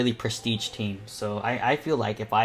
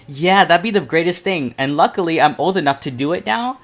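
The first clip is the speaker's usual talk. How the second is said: excited; 6 semitones higher, 8 dB louder than usual. Real, not acted. Dreams of hosting a con panel.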